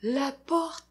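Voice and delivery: slow, drawn-out spooky build; suspense narration. A narrator's reading. Storyteller to children, slow and spooky. Spooky reading of door opening.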